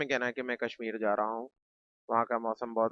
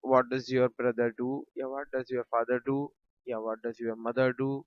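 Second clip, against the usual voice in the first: slow, clear teacher dictation; careful classroom demo; slow model sentences; much slower than usual. Shown as a demonstration. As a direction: spell each question out slowly. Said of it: "teacher models English sentences".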